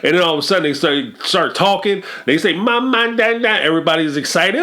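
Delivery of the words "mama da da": lightly voiced baby, a little higher; a hint of baby talk; baby babble. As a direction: coo the first words like a toddler. Imitating a baby's first words.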